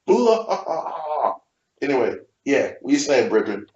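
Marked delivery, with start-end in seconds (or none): 0.0-1.3 blast noise. Retold or imitated. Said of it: "this was like shock".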